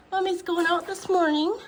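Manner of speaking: pet talk. Real, not acted. Talking to pets, loud.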